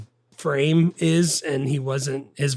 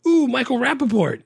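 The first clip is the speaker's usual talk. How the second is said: delighted ooh; 12 semitones higher, 6 dB louder than usual. Retold or imitated. Reading his notes aloud, he coos over Rappaport. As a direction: swoon over the name.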